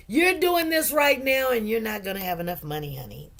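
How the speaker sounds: giggling through the words; a paycheck teasing her, half laughing; laughing while voicing the check. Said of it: "my check was looking at me going".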